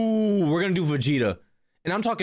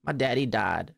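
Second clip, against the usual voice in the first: mock angry Vegeta. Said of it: "And he's angry".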